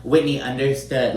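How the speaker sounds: retold curt annoyance, word by word with pauses; mildly annoyed. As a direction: mildly imitate someone trying to shut the other person down. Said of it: "Lisa gets so annoyed".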